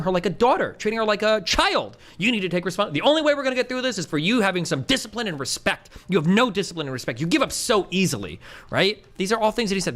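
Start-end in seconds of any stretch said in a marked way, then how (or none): 2.2-8.4 exaggerated tone. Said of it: "I'm exaggerating the tone".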